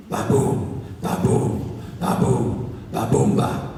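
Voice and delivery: loud rhythmic ba-boom imitation; rhythmic thumping noise. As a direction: thump it out like bedsprings.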